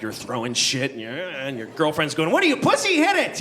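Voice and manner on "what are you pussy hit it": high, loud mocking girlfriend taunt; nagging girlfriend. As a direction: bark it like an impatient girlfriend. Girlfriend yelling at carnival game.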